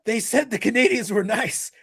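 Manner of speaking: shouting, voice rising with betrayal; anguished shout. Retold or imitated. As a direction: yell it like a betrayed man. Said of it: "the first thing he'll say is".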